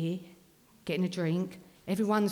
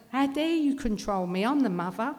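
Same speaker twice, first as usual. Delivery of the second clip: higher-pitched, affronted protest; indignant mother; 4 semitones higher than usual. Retold or imitated. Mother objecting to being controlled by her kids, indignant. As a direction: protest as the one who should be in charge.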